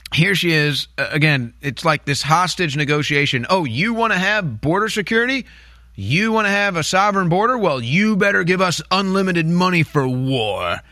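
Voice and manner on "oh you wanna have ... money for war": mock quote. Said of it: "That's basically what Kamala Harris, says".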